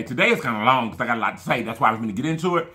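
rushing through the explanation; talking fast. Real, not acted. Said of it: "Talking fast now".

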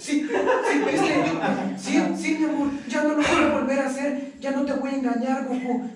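lightly voiced girlfriend, laughing; hint of a sweet pleading girlfriend; mock girlfriend promise. Girlfriend promising boyfriend she won't cheat, mock sweet. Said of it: "y ella así".

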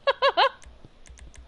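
sudden high-pitched laugh burst. Real, not acted. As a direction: cackle at the chat. Laughing at chat.

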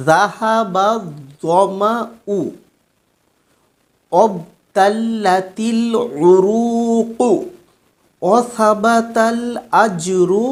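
slow, word by word, each word separated; staccato. Shown as a demonstration. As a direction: recite the dua in slow separated pieces for memorising. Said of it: "আমি কেটে কেটে বলছি". (কেটে কেটে ধীরে ধীরে উচ্চারণ)

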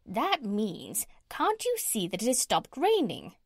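parrot. Acted. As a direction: lecture like a know-it-all parrot, pitch leaping.

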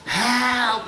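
drawn-out pidgin Portuguese wail; Portuguese-style cry. Shown as a demonstration. Comedian demoing the Portuguese lady's cry for the volunteer. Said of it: "Like that".

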